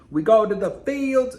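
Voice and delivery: light put-on country twang; country accent. Shown as a demonstration. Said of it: "I could do a country accent".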